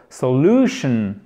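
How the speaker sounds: SOLUTION slow, stressed on LU; accent avant «tion». Shown as a demonstration. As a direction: lean on the LU of SOLUTION. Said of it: "l'accent tonique est juste avant". («solution» accentué sur «lu»)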